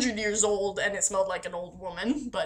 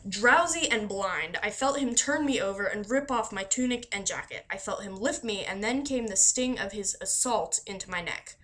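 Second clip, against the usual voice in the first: story reading. Acted. Reading Anne Rice passage aloud.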